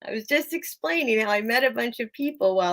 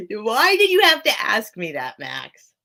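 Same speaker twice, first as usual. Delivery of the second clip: mock complaint; 4 dB louder than usual. Real, not acted. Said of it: "don't get me all paranoid now".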